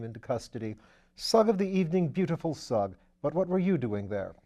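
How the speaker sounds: put-on an airy young lord teasing his valet; Lord Peter. Lord Peter mocking Sugg.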